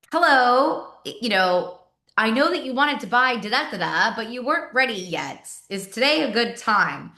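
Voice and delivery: high, stiff sales pitch, every word rehearsed; robotic salesperson. Shown as a demonstration. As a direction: sound like a canned telemarketer script. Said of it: "You sound like a robot".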